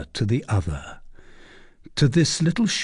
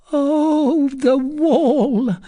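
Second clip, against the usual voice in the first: very high, wailing lament; anguished cry; 5 dB louder, much slower than usual. A narrator's reading. Recluse cries at wall between her and daughter, anguished. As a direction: wail against what keeps you apart. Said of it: "cried the recluse".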